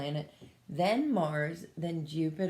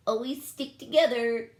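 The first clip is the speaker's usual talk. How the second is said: mama's call; 6 semitones higher, 6 dB louder than usual. Acted. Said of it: "she added".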